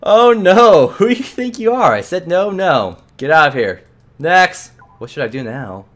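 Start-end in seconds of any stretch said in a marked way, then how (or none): 0.0-4.7 loud, high, laughing scorn; mocking angry clerk. Clerk ridiculing and ejecting the boy, loud scorn. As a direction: laugh him off then throw him out.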